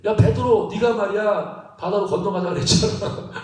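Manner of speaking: playful grumbling reproach with a laugh; mock blaming. Disciple scolding Peter for suggesting the crossing, mock resentful. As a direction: complain at a companion, half laughing. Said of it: "막 이렇게 서로 원망할 텐데".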